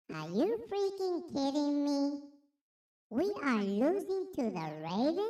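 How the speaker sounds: put-on lightly filtered voice-changer baby. Streamer complains about the losing Dolphins in a mock baby voice. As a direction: whine the score like a toddler, slowly. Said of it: "This is the baby voice".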